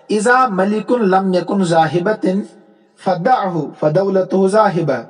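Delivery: slow, measured reading of an Arabic couplet; the teacher reads the poet's couplet aloud for the class, slowly; slow verse recitation. Shown as a demonstration.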